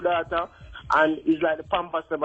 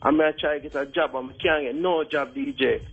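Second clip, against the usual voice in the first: fake Jamaican accent. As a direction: put on a thick Jamaican accent. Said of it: "You sound like Sean Paul pretending to be Jamaican".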